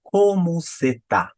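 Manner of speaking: "cê tá" drawn out slowly for learners; everyday reduced form. Shown as a demonstration. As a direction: show "você está" shrunk to "cê tá". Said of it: "No dia a dia eu falo como cê tá".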